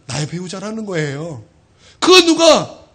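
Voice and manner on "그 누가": loud, high cry to the hall; preacher's cry. Acted. Pastor asks who else comforts like a spouse, loud cry. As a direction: lift it like a cry to heaven. Rhetorical climax in sermon.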